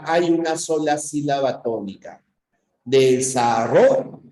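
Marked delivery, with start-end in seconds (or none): 2.8-4.2 "Desarrollo" slow, with the stressed syllable "rro" pushed; stressed demo word. Shown as a demonstration. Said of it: "simplemente la fuerza de voz".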